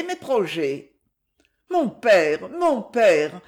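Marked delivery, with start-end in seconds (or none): 1.7-3.4 a sudden urgent appeal; sudden change of voice. Acted. Daughter turns to her father, sudden urgent cry. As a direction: cry out louder, pleading. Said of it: "avec un changement soudain dans la voix".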